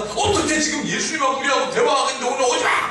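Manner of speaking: acting out an irritated scolding, pitched high; high, indignant mock telling-off; angry disciples. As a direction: snap at intruders as an annoyed disciple. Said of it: "이 제자들이 화가 났습니다".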